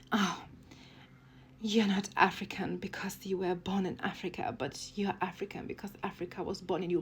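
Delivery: whispered, syrupy mock of a cliché. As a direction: breathe it like a sappy slogan, mocking. Mocking a cliché argument.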